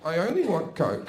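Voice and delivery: put-on "coke" said in his own accent so it sounds like "cock". Telling the big man he only wants coke, accent blurring the vowel. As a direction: let "coke" come out close to "cock". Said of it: "with your accent you may have mistaken that for cock".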